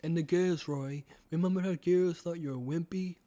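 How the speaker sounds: put-on British accent; lightly acted British character; William Afton. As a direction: persuade in a British villain voice. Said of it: "do my best William Afton impression".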